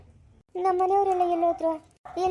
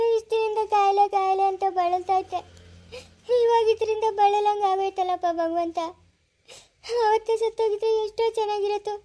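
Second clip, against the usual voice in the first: tearful lament; 4 semitones higher than usual. Acted. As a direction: drag each word out in grief. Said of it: "ಅಳ್ಬೇಡ್ರಿ ಅತ್ತೆ ನೀವು".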